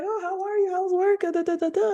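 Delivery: high chatty mom voice; imitating mom. Daughter imitates her mother chatting in a high voice. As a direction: play mom chirping high on the phone.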